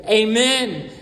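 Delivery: loud, drawn-out amen; congregational amen. Real, not acted. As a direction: lead the room in a firm amen. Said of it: "let's say it together".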